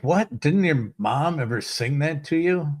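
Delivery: high, disbelieving what?; mock disbelief at a missing nursery rhyme; incredulous. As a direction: act shocked the child never heard it. Incredulous teacher imagined.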